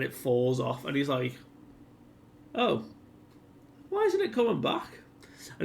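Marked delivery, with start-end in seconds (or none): 2.5-5.0 way higher, a startled villain's yelp of alarm; hammed-up high panicked cry; shocked disbelief. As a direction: squeak out in panic as the arm won't regrow. Villain sees his hand not regrow.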